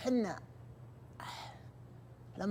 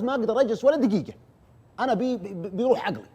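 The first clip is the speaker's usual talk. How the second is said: imitating a panicked girl, pitched higher and louder; desperate frightened girl; 8 semitones higher, 4 dB louder than usual. Teller voicing the terrified girl insisting he come now, panicked plea. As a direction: plead that you can't wait a minute more. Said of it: "مرعوبة".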